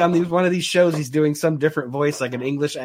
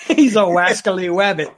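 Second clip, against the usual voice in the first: Elmer Fudd lisp; 4 semitones higher, 5 dB louder than usual. Retold or imitated. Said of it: "That's all, folks".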